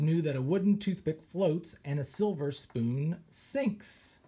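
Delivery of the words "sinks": whispered echo. Acted. Parrot echoes the word.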